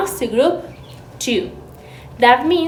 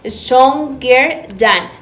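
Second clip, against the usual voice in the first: "Stronger than" stretched out slowly and clearly; teacher drawing out "Stronger than" for the class; slow model phrase; much slower than usual. Shown as a demonstration. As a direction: model it slowly for students to copy. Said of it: "we have to say stronger".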